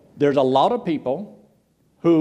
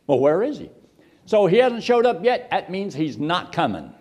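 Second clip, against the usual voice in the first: mild jeer, jumping higher in the middle; mocking scoffers; 3 semitones higher than usual. Scoffers arguing he is never coming, mildly mocking. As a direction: scoff as if the case is closed. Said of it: "there's people who mock and they make fun".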